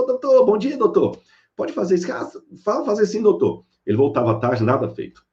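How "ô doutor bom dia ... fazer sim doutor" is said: high, eager yes-sir voice of simple workers; humble worker. Retold or imitated. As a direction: play the meek labourer, pitch up high. Simple workers answering the boss.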